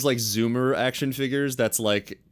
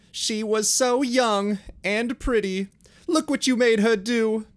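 sobbing; 11 semitones higher than usual. Acted.

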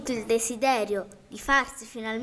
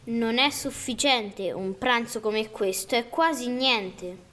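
disappointed. Acted. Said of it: "disse deluso".

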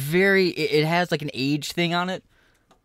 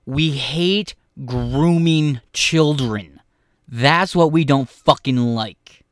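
loud rant; 5 dB louder, slower than usual. Real, not acted. Streamer ranting loudly.

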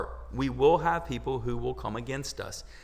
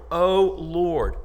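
crying out; 6 semitones higher, 6 dB louder than usual. Acted. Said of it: "He's crying out to the Lord".

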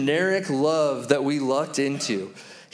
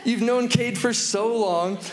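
higher, mock-incredulous scolding; playfully exasperated, pitched up; amused disbelief; 4 semitones higher than usual. Father inwardly reacting to his three-year-old's ridiculous question, amused disbelief. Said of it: "I started to laugh. I thought".

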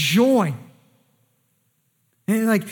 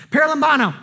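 "Paralambano" rolled out in a mock Italian accent, a bit louder; playful Italian accent; 2 semitones higher, 5 dB louder, much faster than usual. Shown as a demonstration. Preacher savouring his favourite Greek word in a mock Italian accent. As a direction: ham up "Paralambano" like an Italian would say it. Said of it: "I always wanna say it with an Italian accent that I don't have".

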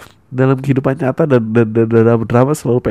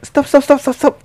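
stopping the band; 13 semitones higher than usual. Acted. Annoyed bandmate halting rehearsal, higher voice. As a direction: cut the band off sharply. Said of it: "Terus dia kayak".

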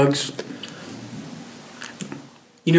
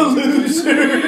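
laughing echo; 11 semitones higher, slower than usual. Retold or imitated. Echoing friend's story, laughing.

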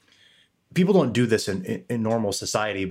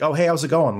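higher, brighter hey to a stranger; friendly greeting; 6 semitones higher, 5 dB louder than usual. Retold or imitated. Camp stranger greeting him while passing, cheery and higher. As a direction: toss off a cheery hello. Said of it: "It was like".

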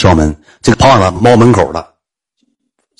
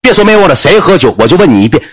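shouting back; 6 semitones higher than usual. Retold or imitated. Neighbour keeps shouting back.

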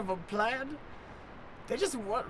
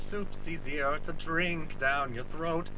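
lightly put-on slow Cockney accent; rambling slowly in a hint of Cockney; 4 semitones lower, slower than usual. Dying Lisbeth rambling about soup in a mild Cockney accent. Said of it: "and Cockney accents".

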